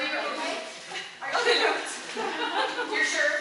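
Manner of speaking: chuckling while asking; laughing concern. Real, not acted. Director checking on a singer who stumbled, laughing. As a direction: laugh gently as you check on her. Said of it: "A little stumble".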